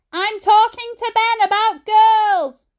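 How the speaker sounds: high, loud, slow shout; shouted back. A narrator's reading. Mum shouting down to Dad, loud and slow. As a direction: bellow it down the stairs. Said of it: "Mum shouted back".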